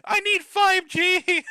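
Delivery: high, loud, drawn-out pleading; mock anguished protest. Son protesting to mom about losing the phone plan, mock anguish. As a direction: wail it like an indignant phone addict.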